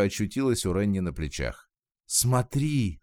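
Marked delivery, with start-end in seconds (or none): 2.1-3.0 сдержанно изображённый крик; слегка приподнятый протяжный возглас. A narrator's reading. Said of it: "закричала она". (воскликнуть, привлекая внимание)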